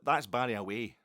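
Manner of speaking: imitating someone shouting through; imitated shout. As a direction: call it through like the wife next door. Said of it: "she was shouting".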